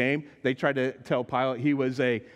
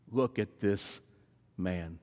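sympathetic; 6 semitones lower, 4 dB quieter, slower than usual. Retold or imitated. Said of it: "spoken almost in words of sympathy".

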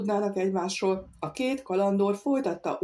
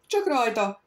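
loud, higher eager cry; eager shout; 5 semitones higher, 4 dB louder than usual. Acted. Bento Simoes cries out eager for action. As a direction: cry out ready for a fight. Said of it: "kiáltott fel Bento Simoes".

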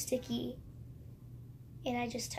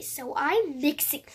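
stuffed-up sniffly talk; sniffly blocked nose; 2 semitones higher, 5 dB louder, slower than usual. Real, not acted. Vlogger with the sniffles mixing slime, stuffed-up voice. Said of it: "Got the sniffles".

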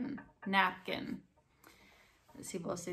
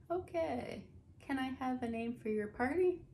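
hostess voice; 6 semitones higher than usual. Pretend. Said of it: "acted hostess reply".

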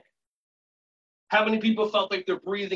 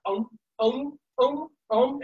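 short repeated chick gulps; baby bird; 5 semitones higher, slower than usual. Shown as a demonstration. Teacher leads the neck exercise, imitated baby bird noises. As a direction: peep like a chick being fed. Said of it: "like a little baby bird".

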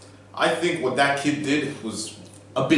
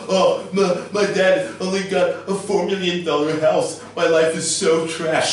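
mock the self-pitying rich kid; mocking complaint. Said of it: "he's going all".

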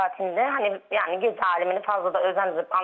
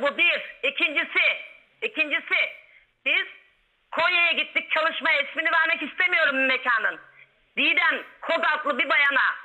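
raised, heated and insistent; agitated and heated; 5 semitones higher than usual. Real, not acted. Caller heatedly defends her claims.

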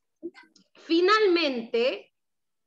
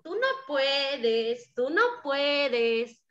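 teasing taunt; much slower than usual. Acted. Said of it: "le dijo".

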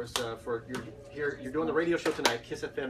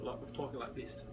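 attempted British accent; 8 dB quieter than usual. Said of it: "if I'm talking with my accent".

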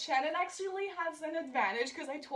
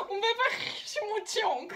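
laughing; 8 semitones higher, slower than usual. Real, not acted. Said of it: "laughing through a demo word".

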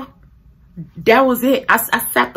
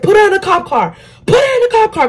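high-pitched mock officer yell; urgent acted-out command; retold shouted order; 11 semitones higher, faster than usual. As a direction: imitate a worked-up cop, voice pitched way up. Officer's order in the screaming match.

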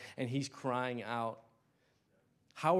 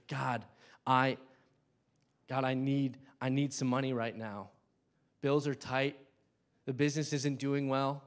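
a little bold; 3 dB louder than usual. Shown as a demonstration. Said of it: "it's okay to just be a little bit bold".

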